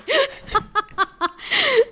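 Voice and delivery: a high, delighted squeal of a laugh. Real, not acted. Laughing at the dad fumbling for his glasses, high squeal.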